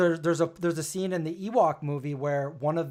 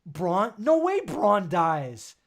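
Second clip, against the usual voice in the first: disbelief; 2 semitones higher, much slower than usual. Retold or imitated. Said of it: "I was just like".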